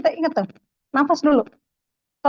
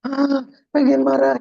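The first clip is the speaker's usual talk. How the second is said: frustrated groan; 3 dB louder, slower than usual. Retold or imitated. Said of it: "gitu kan".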